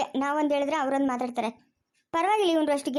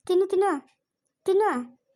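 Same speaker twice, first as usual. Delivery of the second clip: high, insistent coaxing; urging to eat; 4 semitones higher than usual. Acted. Feeding a companion who will not eat, urging. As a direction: press him to eat, pitched up.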